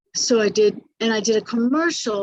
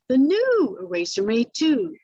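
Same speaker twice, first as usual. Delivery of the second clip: slow ad read; 3 semitones higher than usual. Shown as a demonstration. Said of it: "say it a million different ways".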